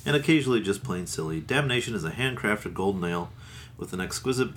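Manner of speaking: ad-copy reading voice; label read aloud. Acted. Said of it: "On the bottle here, they say".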